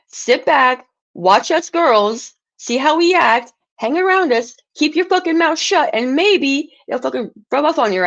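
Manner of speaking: telling Nikki off, voice rising; angry scolding. Real, not acted. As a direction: scold her hard, climbing in pitch.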